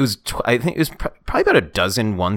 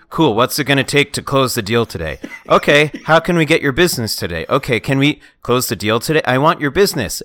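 pushy salesman; 3 semitones higher, 3 dB louder than usual. Retold or imitated. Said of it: "I'm not really joking about the line delivery".

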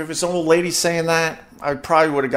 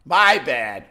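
fake apology; much slower than usual. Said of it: "my first thought was".

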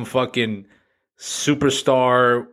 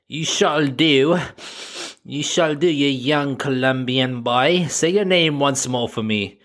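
imperious seductress role; 3 semitones higher, slower than usual.

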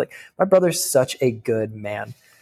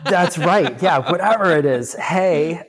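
high, squeaky pitch from nerves; 7 semitones higher than usual. Real, not acted. Guest jokes about suicide, host answers in a squeaky voice. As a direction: voice climbing high and thin with tension. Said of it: "I got that squeaky voice".

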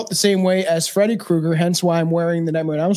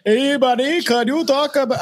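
put-on Canadian accent; 6 semitones higher than usual. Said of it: "that's not a Canadian accent".

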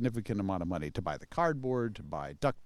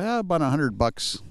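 put-on Chicago accent; 3 semitones higher than usual. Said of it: "'cause that's the way I talked".

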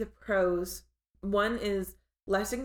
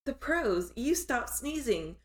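lightly voiced drug commercial; a hint of a drug ad read; pharmaceutical ad; 4 semitones higher, slower than usual. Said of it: "I sound like a drug commercial".

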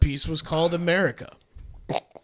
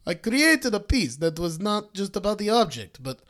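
light put-on Italian accent; 2 semitones higher than usual. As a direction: read it as an Italian artist's quote. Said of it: "let's hear your Italian accent".

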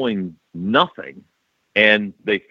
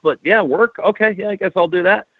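put-on reluctant kid voice; 9 semitones higher, faster than usual. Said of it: "And I was like".

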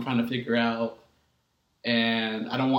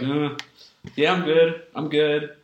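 higher, louder mock-cheerful front; masking feelings; 4 semitones higher, 6 dB louder, slower than usual. Friend acting out hiding hard times behind positivity, masked cheer. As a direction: put on an upbeat "I'm fine" front. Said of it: "it's like a mask".

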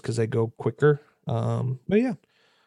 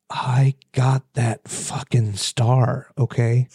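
slow menacing whisper; slower than usual. Real, not acted. Bragging about Mario Party star.

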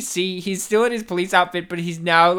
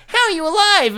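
high, louder shocked question; mock astonished; 11 semitones higher, 6 dB louder, faster than usual. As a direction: ham up the disbelief. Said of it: "He's like".

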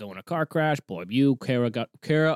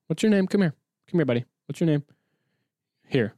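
calling a pet; 3 semitones higher, faster than usual. Real, not acted. Calling the dog over.

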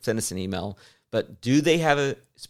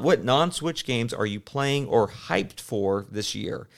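reading slowly; slower than usual. Retold or imitated. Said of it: "he asked".

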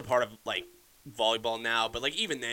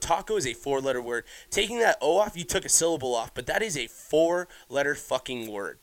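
loud, higher, incredulous outburst at the friend; exasperated rant; 4 semitones higher, 3 dB louder than usual. Retold or imitated. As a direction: re-enact blowing up about shortened words. Retelling own outburst over "talks.

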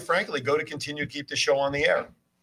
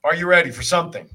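announcer build-up; 2 semitones higher, 6 dB louder than usual. Real, not acted. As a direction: hype the rant like a ring announcer. Announcing the segment.

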